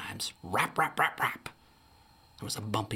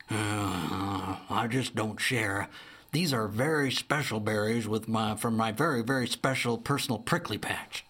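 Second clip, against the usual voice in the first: put-on 1 stingy old bear. Alva V the miserly bear.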